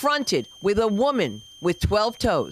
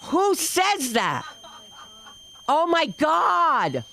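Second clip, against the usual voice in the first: high, slow horrified exclamation; mock outrage; 5 semitones higher, much slower than usual. Mother aghast at daughter exposing her makeup, high mock outrage. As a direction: stretch every word high in disbelief.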